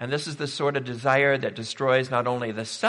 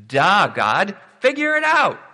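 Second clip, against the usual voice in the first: much louder and higher, fed-up yell; exasperated shout; 6 semitones higher, 8 dB louder than usual. Retold or imitated. Cain shouting at God to figure it out, exasperated yell. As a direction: throw it back at God in full exasperation. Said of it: "because Cain, like".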